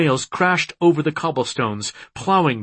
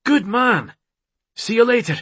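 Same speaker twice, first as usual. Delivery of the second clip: higher-pitched, quick eager character voice; eager ally; 10 semitones higher than usual. A narrator's reading. Ronan telling his friend of the assault, eager. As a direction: pitch it up, rattle off the plan.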